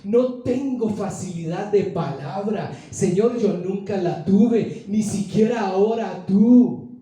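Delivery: slow, drawn-out plea; beg, stretching out the words; a measured, imploring appeal; pleading. Retold or imitated. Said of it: "le rogó y le dijo".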